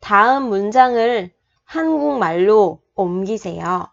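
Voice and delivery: quick, fluent read of the whole Korean sentence; model reading. Shown as a demonstration. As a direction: read 다음 문장을 한국말로 옮기세요 smoothly as a model. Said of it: "mình đọc lại một lần nữa".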